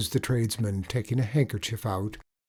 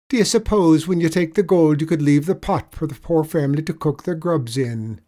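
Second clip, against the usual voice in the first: higher, louder leprechaun lilt, mock pity; sly leprechaun; 6 semitones higher, 8 dB louder than usual. Leprechaun spinning a pitiful tale for the tradesman, higher lilt. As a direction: lay the sorrow on thick.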